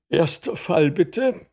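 loud, high courtroom call; judge calling out. A narrator's reading. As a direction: call the case across the courtroom. Judge calls first case.

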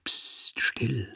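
urgent hushed whisper; a whispered warning in the dark. A narrator's reading. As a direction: hush him sharply under your breath. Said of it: "der Zeichner warnte".

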